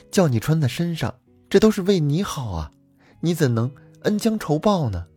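calm him down sweetly; wife soothing her furious husband; coaxing with a smile. Acted. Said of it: "陪着笑脸说".

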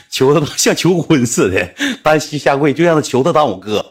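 amused, laughter breaking into the words; can't help laughing as you tell it. Real, not acted. Recalling kneeling like a proposal, laughing.

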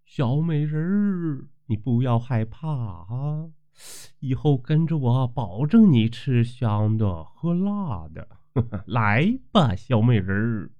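a lightly voiced lecherous landlord, coaxing; leering old landlord. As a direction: lean in and sweet-talk her, slow and hushed. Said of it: "老地主一步步凑上前说".

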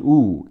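U held as a long "oo". Shown as a demonstration. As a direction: stretch U out like the vowel of room. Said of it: "两个O读长音U".

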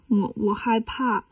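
put-on slow, soft, hesitant child voice; feigned fear. Demon child shies away from 沙和尚, feigned fear. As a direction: falter softly as if scared.

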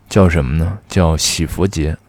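talking around a retainer; wearing a retainer. Real, not acted. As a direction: speak with a retainer in your mouth. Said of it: "我这戴着牙套说话好难受".

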